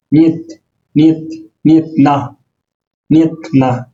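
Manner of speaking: নিয়েত as Russian nyet, one syllable. Shown as a demonstration. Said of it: "না, ইয়েত". (রুশ উচ্চারণে নিয়েত)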